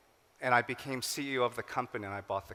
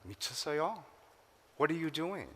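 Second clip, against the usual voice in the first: higher, incredulous "are you crazy"; mocking disbelief; 4 semitones higher, 3 dB quieter, much faster than usual. Friends in Boston laughing at his new job, mock disbelief. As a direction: scoff at him in disbelief. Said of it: "they laughed at me".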